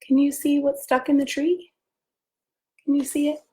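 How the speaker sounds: light up asking about the kite; excited. Acted. Reader asking children to spot the kite, eager.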